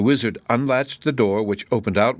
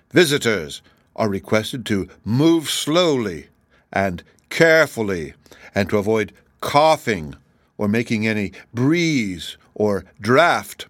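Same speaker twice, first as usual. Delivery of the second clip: slow, spaced-out proclamation; deliberate, emphatic notice reading; reading a sign aloud. A narrator's reading. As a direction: announce each warning word by word, with weight. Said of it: "reading the sign aloud".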